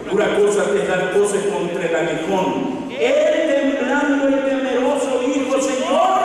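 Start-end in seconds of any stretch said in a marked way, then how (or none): 2.9-6.2 high, ringing scripture reading; preaching. Acted. Preacher reading Saulo's answer to the congregation, high preaching voice. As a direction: proclaim the verse with raised pitch.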